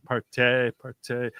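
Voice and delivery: "Partay" stretched with a long final ay; party drawled as partay. Shown as a demonstration. Streamer celebrating the parents leaving, drawling "Partay, partay". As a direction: sing out "Partay" like a party cheer. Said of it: "Now we can have some party".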